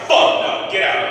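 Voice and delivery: loud, blunt brush-off; mock bank refusal. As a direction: shove him out the door. Bank voiced refusing a loan.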